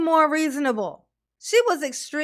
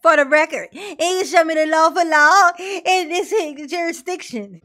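mocking Daryl; 4 semitones higher, 4 dB louder than usual. Host mocks Daryl's courtroom demand.

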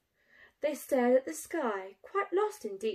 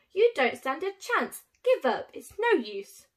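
taunting shout; 4 semitones higher, 6 dB louder than usual. Acted. Bruce taunting in squabble.

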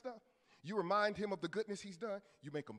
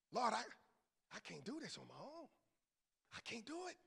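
humble prayer; 2 semitones higher, 8 dB quieter, faster than usual. Acted. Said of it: "he went and he prayed".

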